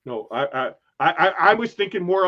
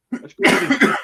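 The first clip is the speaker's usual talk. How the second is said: sing-song announce; 10 semitones higher, 7 dB louder, faster than usual. Pretend.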